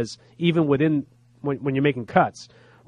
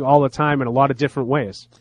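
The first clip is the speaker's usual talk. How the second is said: nose whistling on every breath; sinus-blocked speech with a whistle. Real, not acted. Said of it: "whose nose is whistling".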